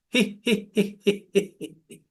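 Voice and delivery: a light he he giggle, fading away; hee hee laugh. Shown as a demonstration. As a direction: giggle he he for the class. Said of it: "and one more time".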